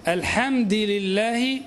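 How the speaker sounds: slow "الحمد لله" with the dal in kasra: alhamdi lillah. Shown as a demonstration. Teacher slowly demonstrates the reading "الحمد لله" for students. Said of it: "على قراءة من أتبع الدال اللام".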